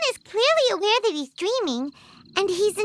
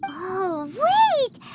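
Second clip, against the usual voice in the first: sudden realization; 3 semitones lower than usual. Acted.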